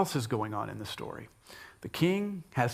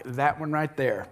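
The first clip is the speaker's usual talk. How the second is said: Esther accusing; slower than usual. Retold or imitated. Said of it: "Esther's like".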